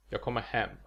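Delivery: "Jag kommer" rushed through, "hem" stressed. Shown as a demonstration. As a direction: let "Jag kommer" blend, put the weight on "hem". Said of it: "The first two words are just kinda rushed through".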